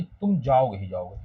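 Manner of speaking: "तुम जाओगे ही जाओगे" with जाओगे leaned on; stress on जाओगे. Shown as a demonstration. Teacher to class: जाओगे stressed. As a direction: press on जाओगे. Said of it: "किस पे जोर देता?".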